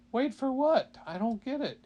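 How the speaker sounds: high, loud puzzled dragon. Acted. Dragon asking the purgatory clerk, high and puzzled. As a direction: squawk it out in confusion. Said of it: "he said".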